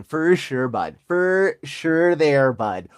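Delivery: lightly hammed-up Canadian accent; a touch of stereotypical Canadian accent. Shown as a demonstration. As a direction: imitate a Canadian, a bit playfully. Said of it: "That's Canadian".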